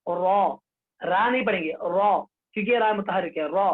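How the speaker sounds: रॉ with a heavy, full vowel; रॉ said thick and full. Shown as a demonstration. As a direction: say रॉ full and heavy, not thin रा. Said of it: "उसको क्या पढ़ेंगे".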